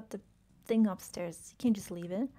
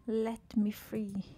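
creature plea; much slower than usual. Acted. Voicing the trapped creature.

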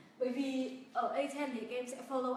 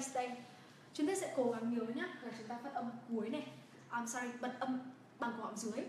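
ordinary talk, nothing marked

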